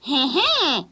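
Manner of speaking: a mild sly witch heh-heh; lightly voiced old witch; witch's chuckle. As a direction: snicker knowingly. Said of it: "dit-elle".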